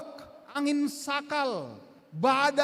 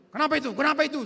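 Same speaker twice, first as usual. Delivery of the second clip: firm dad asking; 4 dB louder, much faster than usual. Retold or imitated. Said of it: "saya bilang".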